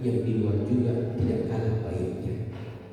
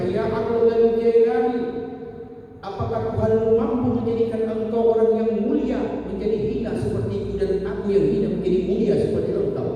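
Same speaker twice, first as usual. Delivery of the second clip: put-on desperate drunk man; 10 semitones higher than usual. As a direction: hurl the question up at full voice. Drunk man's third question.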